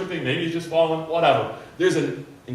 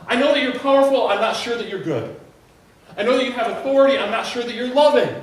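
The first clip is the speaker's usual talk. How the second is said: louder, higher, urgent pleading; impassioned plea; 4 semitones higher, 4 dB louder than usual. Pretend. Leper pleading with Jesus for healing, rising passion. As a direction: beg him with rising intensity.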